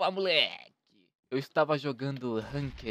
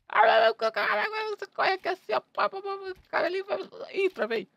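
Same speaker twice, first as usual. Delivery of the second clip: high-pitched mock panic; panicking gamer; 7 dB louder than usual. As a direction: babble in fake gaming panic. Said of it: "eu tava zoando só".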